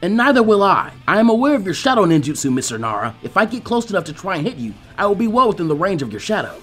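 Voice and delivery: high, loud, formal declaration; Lee, earnest. Acted. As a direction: stand him down with conviction.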